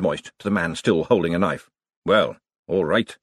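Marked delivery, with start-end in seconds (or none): 2.0-3.2 mollified. Acted.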